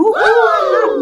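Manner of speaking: high, loud mock whoop; imitated crowd cheer. Crowd cheering on the parking lot fight, imitated whoop. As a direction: whoop like an onlooker egging on a fight. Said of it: "E o pessoal gritando".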